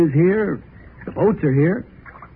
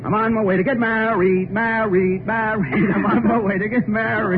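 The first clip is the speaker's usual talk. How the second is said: high, excited calling out; giddy groom announcing his wedding; joyful shout; 5 semitones higher than usual. Acted. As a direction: crow it to the world. Shouting joy while driving.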